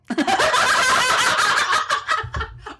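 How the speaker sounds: long high cackling laughter; big helpless laugh. Real, not acted. Host cracks up at her co-host's joke, helpless laughter. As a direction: burst out laughing and keep going.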